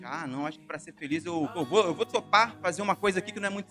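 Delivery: voicing a rationalizing believer. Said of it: "tentando se virar pra ser feliz".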